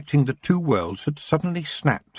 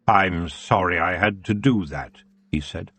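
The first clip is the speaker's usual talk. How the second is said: elf king; 4 semitones lower than usual. Acted. Elf king greeting Tiffany, low and languid.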